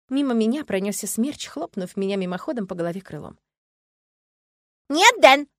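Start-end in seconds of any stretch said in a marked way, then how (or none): 4.9-5.5 high, loud jealous shout; jealous yell. Acted. Girl yelling at her brother, jealous shout. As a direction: shout him off your monster. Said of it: "ревниво заорала Лия".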